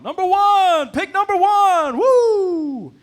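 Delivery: high, full-volume fan yell; cheering crowd. Retold or imitated. Stadium crowd helping a little girl guess, roaring high shout. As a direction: shout encouragement with stretched words. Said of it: "stadium full of people start helping her out".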